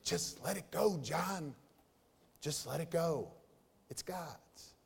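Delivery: soft self-talk, nearly under the breath at the end; softly telling himself. Retold or imitated. Pastor quietly voicing his inner talk to himself, soft and hushed. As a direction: coax yourself gently to let go. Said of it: "I'm having this conversation".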